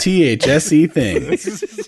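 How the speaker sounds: slow, spelled-out robot read. Retold or imitated. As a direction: read it like a glitchy text-to-speech. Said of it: "Typo robot".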